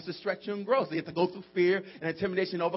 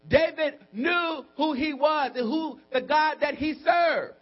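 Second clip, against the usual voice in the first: high, driving sermon delivery; sustained high-pitched exhortation; full-force preaching; 6 semitones higher, 3 dB louder than usual. Real, not acted. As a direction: preach it out to the whole congregation.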